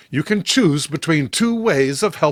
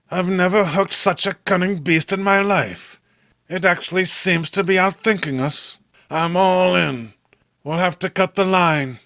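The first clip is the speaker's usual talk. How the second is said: Robert's voice, a little higher, worn out; tired Robert; 4 semitones higher than usual. Acted. Robert to John after hours of fighting, lightly weary.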